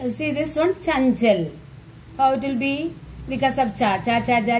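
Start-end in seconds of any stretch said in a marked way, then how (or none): 0.7-1.5 Chanchal with a palatal n before the second ch; teacher's model of Chanchal; dot as nya. Shown as a demonstration. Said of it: "Cha, Nya pronunciation".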